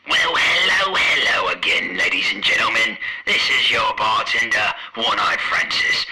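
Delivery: big bar host welcome; bartender character voice. Acted. Bartender character intro, take two.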